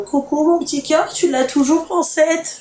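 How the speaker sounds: high, cooing voice; sweet flirty message voice. Retold or imitated. Reading out Insta message.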